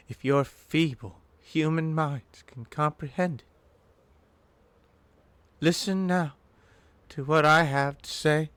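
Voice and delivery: slow, portentous mystic speech; arcane all-knowing being. Acted. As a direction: address feeble mortals with grand, deliberate pauses.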